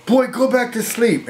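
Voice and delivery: high-pitched mock holler; imitated holler. Mother hollering from her bedroom to her son, imitated holler. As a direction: call out like a mother, without real volume. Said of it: "She'd just holler from her bedroom".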